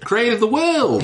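put-on high, slow Kiwi accent; drawn-out New Zealand boat captain. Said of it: "I keep doing New Zealand accent".

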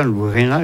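Occitan "renard" as "luʀena", final r dropped; Occitan pronunciation. Shown as a demonstration. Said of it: "Je dis en occitan".

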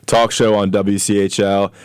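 slow, upbeat radio host read; radio announcer. Acted. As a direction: announce the show like a DJ. Radio show intro.

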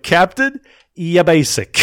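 high, loud mock officer squeal; mock exaggerated version. Teasing the major's line to the co-host, high and loud. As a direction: ham up the major's put-down. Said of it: "It's like".

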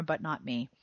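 unvoiced whispered aside; whispered confession. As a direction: drop to a rueful whisper. Reading letter, self-deprecating aside.

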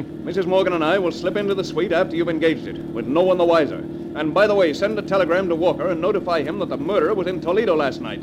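loud, firm commands to his accomplice; commanding orders. Acted. Husband ordering the accomplice Jason, loud and commanding. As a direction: bark out the plan, no argument.

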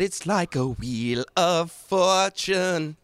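put-on light Indian accent, slow; hint of an Indian accent. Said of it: "is that an Indian accent".

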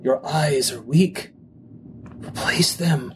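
low, slow commanding voice; deep-pitched, measured voice of command; powerful inner voice. Acted. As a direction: intone it slowly, like an order inside the head. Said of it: "it's a very powerful voice in your head".

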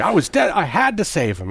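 lightly voiced Bones begging to save him; desperate plea. Friend quotes the doctor pleading in court, with a touch of desperation. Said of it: "such a good delivery".

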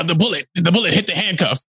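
quick, casual retold explanation; offhand excuse. Podcaster imitates The Rock explaining the escape, offhand. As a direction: toss it off as a flimsy excuse.

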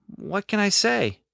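high, slow sheepish shrug. A narrator's reading. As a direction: play it off sheepishly. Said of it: "A sheepish grin".

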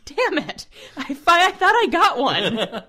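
a playful groan of defeat, giggling; laughing while voicing the disappointed boyfriend; laughing mock dismay.

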